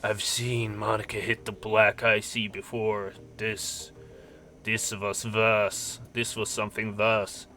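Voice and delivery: a light mock German accent for a paranoid old geezer; grim old fixer in a lightly put-on German accent. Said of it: "I should stop doing accents now".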